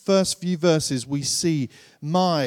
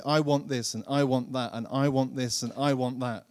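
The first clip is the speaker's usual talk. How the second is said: put-on childish wanting; 5 semitones lower than usual. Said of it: "children ... say".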